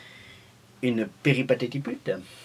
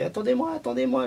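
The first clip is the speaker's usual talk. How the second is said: mock calling out, much higher and louder; imitation d'appel; 5 dB louder, faster than usual. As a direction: imitate a kid calling after a bus. Rejoue une gamine courant après le bus. (appel aigu et fort, imité)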